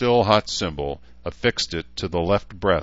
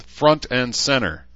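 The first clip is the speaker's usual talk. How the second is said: higher, slow drawn-out command; called out; 6 semitones higher, 4 dB louder, slower than usual. A narrator's reading. Edmund ordering Herzer out of formation, called out slowly. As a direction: order him forward in a raised, measured call. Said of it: "Edmund called".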